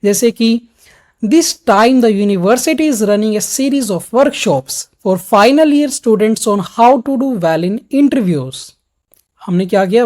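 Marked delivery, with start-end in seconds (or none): 1.2-8.6 slow, key words stretched and stressed; stressing key words. Shown as a demonstration. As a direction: lean on university, running, workshops. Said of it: "words पे थोड़ा सा stress दिया है". (मुख्य शब्दों पर ज़ोर, खींचकर)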